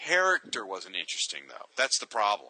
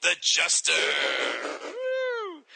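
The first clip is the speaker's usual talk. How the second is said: excited announcement; much slower than usual. Real, not acted. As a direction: announce it like a hype man. Announcing next character excitedly.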